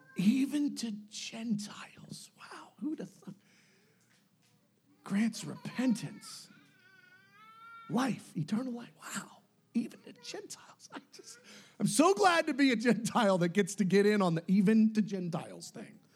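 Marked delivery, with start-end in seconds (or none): 0.2-10.6 slow, hushed, drawn-out, musing wonder. Imagining how they said it, acting it out slow and pondering. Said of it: "saying it slow and ponderful".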